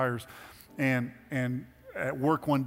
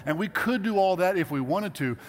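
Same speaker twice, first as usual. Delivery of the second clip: raised, higher-pitched, emphatic declaration; impassioned fatherly speech; 5 semitones higher, 6 dB louder than usual. Acted. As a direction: lay down the family values loud and proud. Acted fatherly speech to his kids.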